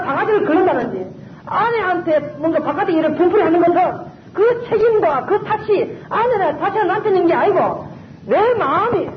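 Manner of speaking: usual speaking voice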